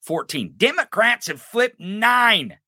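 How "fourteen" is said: Fourteen dropped soft, under the breath; a quiet repeat of Fourteen; softer echo. Real, not acted. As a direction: let Fourteen fall away quietly. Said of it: "repeated number".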